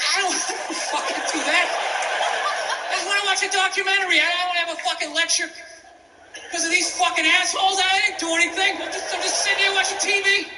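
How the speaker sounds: exasperated rant. Retold or imitated. Retelling heated reply to girlfriend.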